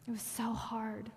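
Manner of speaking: a broken whisper, barely voiced. The brother admitting his struggle, in a whisper. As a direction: let it fall to a whisper of confession.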